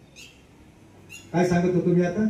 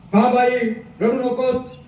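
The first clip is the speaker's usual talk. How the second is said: higher and louder plea to his mother; boy begging his weeping mother, raised voice; pleading cry; 4 semitones higher, 3 dB louder than usual. Retold or imitated. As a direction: call out to stop her crying.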